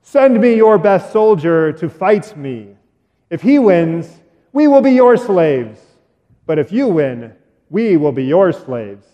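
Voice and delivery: lightly voiced booming giant, slowed; a hint of a taunting giant; giant's challenge. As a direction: call out slow and bold like a giant. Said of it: "He would call out".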